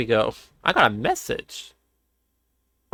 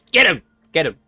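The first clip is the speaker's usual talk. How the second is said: cheering shout; 5 dB louder, faster than usual. Real, not acted. Cheering the animal on.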